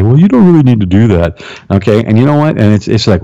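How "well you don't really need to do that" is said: coaxing, lightly voiced tempter; silver-tongued devil. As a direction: talk them out of it, smooth as a devil. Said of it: "some silver-tongued devil come up and say".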